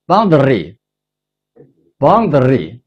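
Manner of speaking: boundary，boundary said slowly with a rolled R, like bang-da-li; boundary in a rolled-R foreign accent; local foreign accent. Shown as a demonstration. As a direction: European accent on boundary, slow. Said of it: "他用他的本地口音".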